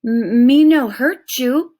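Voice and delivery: put-on boy trying broken English to calm the Indian. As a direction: speak pidgin slowly to be understood. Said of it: "in what he supposed was Indian English".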